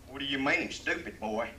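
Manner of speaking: drawling cowboy. Acted. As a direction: snap back like an insulted old cowboy. Texan cowboy answers back in joke.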